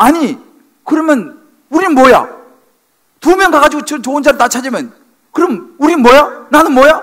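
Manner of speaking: loud, high-pitched angry outburst.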